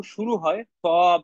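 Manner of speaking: slow, drawn-out "সদ"; "শুরু হয় সদ" said slowly, leaning on "সদ"; stress on sad. Shown as a demonstration. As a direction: hold "সদ" long as the teacher points out the letter. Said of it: "সদ দিয়ে".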